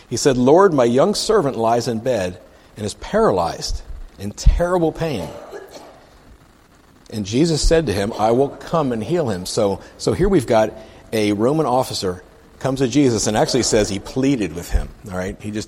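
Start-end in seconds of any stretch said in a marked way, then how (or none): 0.1-9.5 emphatic, measured read-aloud; scripture reading. Acted. Preacher reads the officer's plea to Jesus, emphatic scripture reading. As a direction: read it out, leaning on key words.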